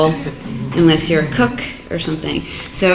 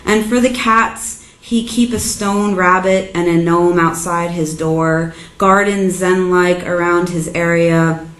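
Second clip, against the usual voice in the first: measured, deliberate poetry-reading voice; poem reading; slower than usual. Acted. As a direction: read it as a poem, line by line, evenly paced. Reads own poem aloud.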